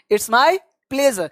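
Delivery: very slow, each word stretched for clarity; slow demo. Shown as a demonstration. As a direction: model it slowly for the class. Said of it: "तो आपको जवाब देना है". (धीमे, साफ़ उच्चारण में)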